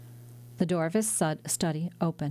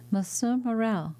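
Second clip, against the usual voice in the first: calling out; 4 semitones higher than usual. Acted. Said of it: "cried a voice on the stairs".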